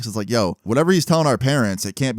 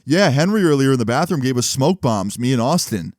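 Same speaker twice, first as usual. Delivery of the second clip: mildly raised, boastful imitation; loud bragging; 3 semitones higher than usual. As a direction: brag openly to the group. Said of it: "Like, loud as shit".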